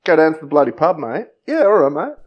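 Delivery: loud, hammed-up Aussie banter; broad mock-Australian pub mates; Australian accent. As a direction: lay on a thick Australian accent. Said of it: "the way Australians say bloody".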